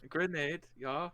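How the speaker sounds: brief put-on Norse accent; light Scandinavian-style accent; Norseman accent. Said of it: "I have to use my Norseman".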